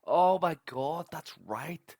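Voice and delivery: high, loud burst of recognition; real excited exclamation, stretched out; sudden recollection. Real, not acted. Host suddenly remembers the tweet story, excited.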